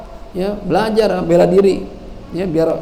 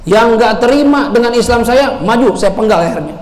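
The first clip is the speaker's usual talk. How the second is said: defiant challenge; 6 semitones higher, 3 dB louder than usual. Acted. Umar challenges the Quraysh.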